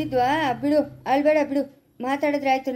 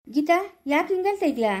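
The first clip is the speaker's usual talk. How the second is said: tearful. Acted. Geetha crying over mother's news.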